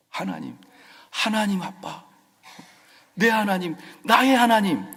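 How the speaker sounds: intimate call swelling to a cry; David calling God. Acted.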